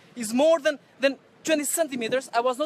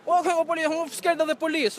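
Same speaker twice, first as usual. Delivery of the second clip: slow, sarcastic fake fright; mock fear; 3 semitones higher, slower than usual. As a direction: pretend to tremble, mocking them. Mocks threat of calling police.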